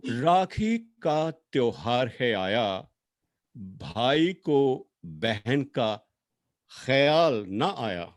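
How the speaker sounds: slow, measured verse with long pauses; mushaira-style poem reading; poem recitation. Acted. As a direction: recite it line by line, drawing out the key words.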